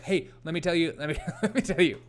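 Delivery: slightly hammed-up eager know-it-all; mock eagerness, tumbling into a laugh; lightly mimicked excited kid. Host mocking an over-eager explainer, lightly excited. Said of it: "so excited to talk about a new subject".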